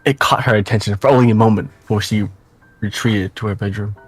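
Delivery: even reading, softening at line ends; story narration. Acted. Narrator follows her up the staircase, story narration. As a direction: narrate the scene with measured phrasing.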